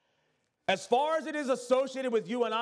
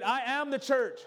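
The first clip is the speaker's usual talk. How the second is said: higher, emphatic declaration; like you mean it; 5 semitones higher than usual. Shown as a demonstration. Preacher prompting the congregation to repeat, like you mean it. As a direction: proclaim it with conviction. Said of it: "Say it like you mean it".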